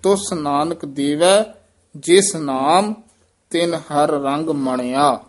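three phrases, breaking at ਦੇਵੈ and ਨਾਮ; careful pauses. Shown as a demonstration. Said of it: "ਵਿਸਰਾਮ ਧਿਆਨ ਨਾਲ ਲਾਉਣਾ ਹੈ". (ਦੇਵੈ ਅਤੇ ਨਾਮ ਤੇ ਵਿਸਰਾਮ)

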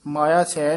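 ਮਾਇਆ ਛੈ split, with a light single chh; quick ਮਾਇਆ ਛੈ as two loose words; mispronunciation demo. Shown as a demonstration. Teacher showing a mistake, ਮਾਇਆ ਛੈ said loosely as maya chhai. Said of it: "ਨਹੀਂ ਵੀ ਕਹਿਣਾ".

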